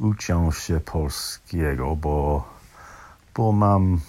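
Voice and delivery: ordinary delivery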